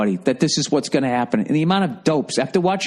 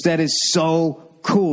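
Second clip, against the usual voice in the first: mother-in-law; 4 semitones higher, slower than usual. Retold or imitated. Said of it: "She goes".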